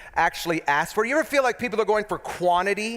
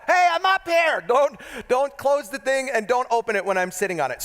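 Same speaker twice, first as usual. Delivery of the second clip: calling out; 7 semitones higher than usual. Retold or imitated. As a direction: shout down so they don't shut you in. Calling down from the attic.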